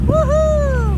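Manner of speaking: high, loud whoop; excited cheer. Real, not acted. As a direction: shout it out with joy. Cheering on the trail.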